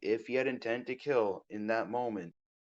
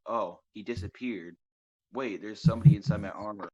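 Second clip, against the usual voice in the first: suddenly alarmed, quick and louder; startled realization; 8 dB louder than usual. Retold or imitated. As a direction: blurt it out in a rush of surprise. Mocking opponent's startled realization.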